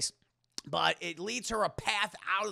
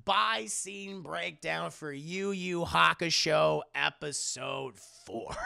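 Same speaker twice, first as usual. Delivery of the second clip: slow, loud sign-off; announcer voice; 3 dB louder, slower than usual. Real, not acted. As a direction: announce it slowly. Closing announcement.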